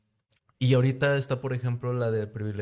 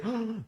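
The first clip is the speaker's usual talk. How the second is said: put-on high little baby cry of ah; baby squeal; 11 semitones higher, 4 dB quieter than usual. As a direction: squeal it like a baby reacting to the show. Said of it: "hasta le hace".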